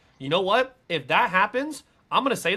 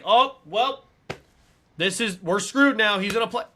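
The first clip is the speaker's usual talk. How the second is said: higher, louder voice of fans giving up; mock alarmed resignation; 5 semitones higher, 5 dB louder than usual. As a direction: imitate fans wailing that all is lost. Fans' reaction to injunction, acted.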